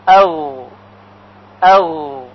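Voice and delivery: throaty gargle, like water in the throat; gargling sound demo. Shown as a demonstration. Teacher demonstrates gargling sound for ghayn. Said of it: "به این صورت".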